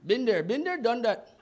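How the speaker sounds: mock Indian-accented reply. Comic voices an Indian man giving his name, mock Indian accent. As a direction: answer as the Indian restaurant worker. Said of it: "Indian people in Mister Greek".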